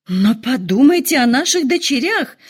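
выше и громче, вскрикнуть; в смятении вскричать; ошеломлённый возглас. A narrator's reading. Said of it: "ошеломлённо вскричала она". (жена вскрикивает о дочерях, громко и высоко)

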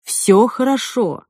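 slow, drawn-out reassurance; slow, caring coaxing; soothing tenderness. A narrator's reading. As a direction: soothe her slowly and tenderly. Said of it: "ласково приговаривал Джек".

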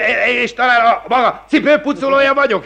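high, sputtering indignation; outraged. Acted. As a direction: bristle at the insult. Magistrate insulted.

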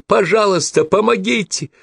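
high frantic pleading cry; screaming with all her strength. A narrator's reading. Woman breaking free for a moment, frantic high scream for help. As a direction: beg for help at the top of your lungs. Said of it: "закричала, что было сил".

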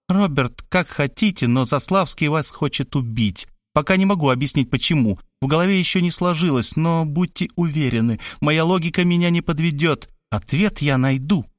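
a hint of an insistent woman; female character voice. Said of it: "сказала".

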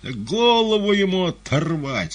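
high, loud, drawn-out call; stern heckle. A narrator's reading. Spectator in the gallery to Fagot, stern call. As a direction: call it out slowly from afar. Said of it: "сказал кто-то сурово на галёрке".

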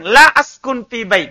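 LA run straight into "askun fi bait"; tanpa jeda. Shown as a demonstration. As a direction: say "la askun fi bait" as one unbroken phrase. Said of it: "jangan bilang". ("la askun fi bait" disambung tanpa jeda)

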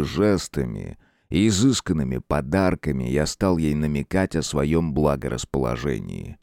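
low, relishing demon lord voice; lightly voiced gloating ruler; savoring dark lord. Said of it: "смакуя".

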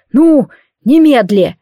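loud, slow, desperate command; urgent shout. A narrator's reading. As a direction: drive the boy out, shouting. Uncle urges boy to flee.

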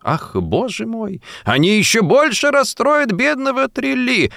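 high, plaintive lady's cry; high plaintive lament over the poodle; plaintive exclaim. A narrator's reading. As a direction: wail it like a fretful lady. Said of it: "воскликнула плачевно".

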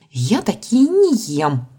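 put-on slow, snooty girl's snort; haughty young lady scoffing; bad acting. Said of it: "фыркнула она". (надменное фырканье)

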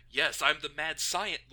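loud, slow mad scientist voice. Retold or imitated. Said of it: "he's like".

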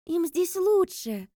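convinced. A narrator's reading. Sai defends the children's boarding house, convinced. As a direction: insist calmly but firmly. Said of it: "убеждённо отозвалась Саи".

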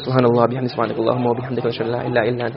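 fast, low, soft murmured supplication; quick quiet du'a to close the class; rapid closing prayer. Real, not acted. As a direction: rattle off the closing dua under your breath.

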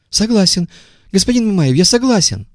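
high, eager yes; high eager agreement. A narrator's reading. Visitor giving in to Мамаев, eager high voice.

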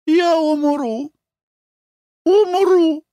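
high, feeble hammed-up dying wail. A narrator's reading. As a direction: play the fainting lady to the hilt. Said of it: "произнесла Нора умирающим голосом".

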